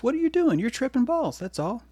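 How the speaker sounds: high, teasing disbelief; ribbing the audience in a high mock voice; mock incredulous. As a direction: poke fun at the listener.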